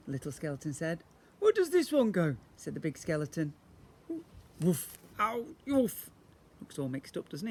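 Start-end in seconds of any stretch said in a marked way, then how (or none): 1.4-2.4 higher, louder puzzled question; a lightly voiced skeleton asking. A narrator's reading. 4.6-6.1 higher mock bark; a lightly voiced dog yelp. A narrator's reading. Dog skeleton barks.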